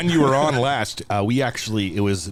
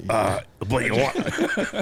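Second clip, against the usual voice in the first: mock pirate voice; slower than usual. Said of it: "You sound like a really shitty pirate".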